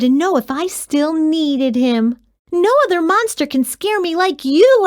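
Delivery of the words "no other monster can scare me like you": giggled. A narrator's reading. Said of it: "I giggled".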